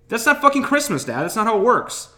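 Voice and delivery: very high, loud exasperated yell. Retold or imitated. Son yelling at dad over Christmas, shrill shout. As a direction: scream it at him.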